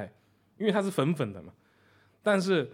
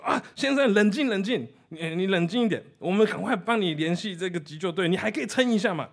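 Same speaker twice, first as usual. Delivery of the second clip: higher, louder, urgent, begging him to stay calm; nervous clerk soothing a caller; anxious calming; 5 semitones higher, 3 dB louder than usual. Retold or imitated. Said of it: "那边越来越紧张".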